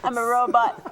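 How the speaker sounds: stiff mechanical robot voice. Pretend. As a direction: speak like a robot, evenly. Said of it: "talking like a robot".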